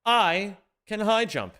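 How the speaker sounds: slow, drawn-out, checking it; slow disbelief. Real, not acted. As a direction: say it slowly, not believing it. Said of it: "Wait a fucking second".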